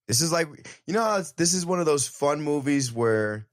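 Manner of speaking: bubbly fan gush; excited rush. Real, not acted. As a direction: rattle it off with glee. Excited rush about movie.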